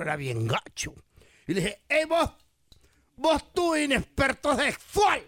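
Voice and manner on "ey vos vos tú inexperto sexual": put-on slow taunt in Salvadoran accent. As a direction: tease him in thick Salvadoran Spanish. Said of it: "¿De dónde es ese acento?".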